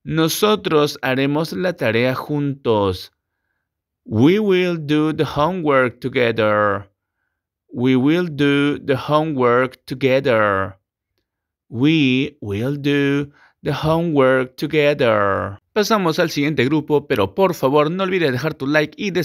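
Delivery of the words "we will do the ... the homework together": slow, clear sentence for repetition; slow English teacher model. Shown as a demonstration. Teacher dictates the model sentence to students. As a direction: articulate each word for the class.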